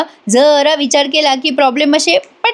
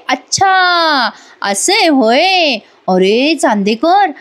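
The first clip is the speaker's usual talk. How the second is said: slow, stretched coy reply; teasing drawl; 3 semitones higher, much slower than usual. Acted. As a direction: savour making him wait. Kala teasingly stalling his request.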